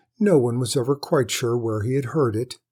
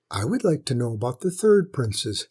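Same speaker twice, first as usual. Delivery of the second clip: plain reading voice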